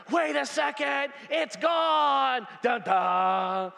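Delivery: gasp, then sing the dun dun sting; hammed-up thriller beat; mock movie suspense.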